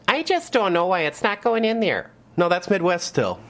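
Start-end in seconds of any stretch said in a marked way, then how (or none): 0.1-2.1 put-on North Florida accent. Imitating a North Florida customer with a futon, Southern accent. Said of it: "a more Northern Florida accent".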